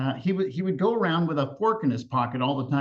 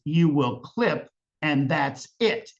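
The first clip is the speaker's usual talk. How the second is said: stern final word; slower than usual. Retold or imitated. Grandmother ends the argument.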